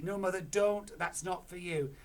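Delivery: high, loud protest; alarmed plea. Acted. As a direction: stop her. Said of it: "cried Missus Cranky".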